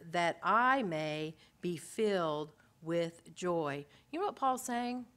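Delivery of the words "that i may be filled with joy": slow tender longing. Acted. Voicing Paul's longing.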